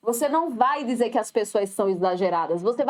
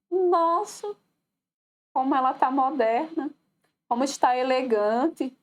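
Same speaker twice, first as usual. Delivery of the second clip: ironic admiration. Acted. Remarking on someone's unusual outfit, ironic admiration. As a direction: feign being impressed, with irony. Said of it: "Fui irônica".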